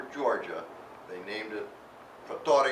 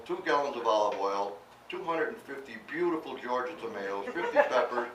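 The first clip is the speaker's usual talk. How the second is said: louder, laughing at the huge amounts; laughing list; 6 semitones higher, 9 dB louder than usual. Real, not acted. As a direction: chuckle through the ridiculous list. Laughing through absurd Army recipe list.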